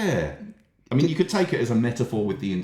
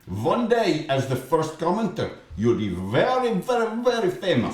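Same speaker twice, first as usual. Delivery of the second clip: put-on high Russian accent, stretched very; 7 semitones higher than usual. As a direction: promise fame in a Russian accent. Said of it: "Russian voice".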